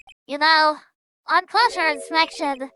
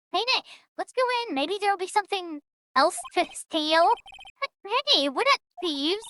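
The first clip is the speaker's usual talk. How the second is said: high, quick honking character voice; goose-like voice; 3 semitones higher than usual. Acted. Reading a thief's lines, lightly goose-like. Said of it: "It sounds like a goose".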